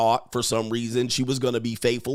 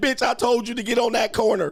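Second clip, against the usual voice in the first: mock, very high, bossy pimp yelling tirade; 11 semitones higher than usual. Describing pimp culture, the speaker acts out a pimp yelling: imitating Mac Daddy Earl yelling. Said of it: "pimps will be yelling at they hoes like this".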